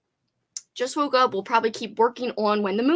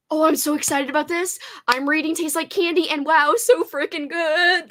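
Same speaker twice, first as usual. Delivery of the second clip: excited gushing; 5 semitones higher than usual. Real, not acted. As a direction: rave about it. Gushing about a book.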